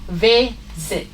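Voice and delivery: "Visit" said slowly in two separate syllables; syllable stress demo. Shown as a demonstration. Teacher showing students why we just add E D, syllable stress demo. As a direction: break "Visit" into two clear beats. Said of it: "it is a stress syllable".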